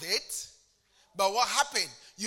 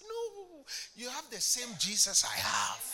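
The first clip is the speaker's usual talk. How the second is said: preaching shout; 6 semitones higher than usual. Real, not acted. Preacher rebukes dependence on pastor.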